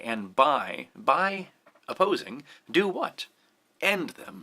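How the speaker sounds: weight on "End", "them" let go; stress on BY and END. Shown as a demonstration. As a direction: build through "by opposing" to a marked "End". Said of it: "So I want to really mark end".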